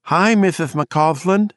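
put-on a toothless kid calling out brightly; chirpy lisping boy. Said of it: "he cried, chirpily".

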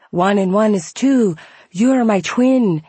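high, loud excited Scottish man; eager, bursting with excitement. Retold or imitated. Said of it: "He was excited".

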